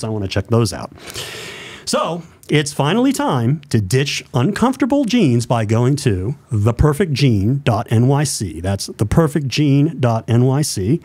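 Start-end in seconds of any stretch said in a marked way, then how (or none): 1.8-11.0 radio voice. Shown as a demonstration. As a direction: spell out the web address like a radio announcer. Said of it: "I do my radio voice".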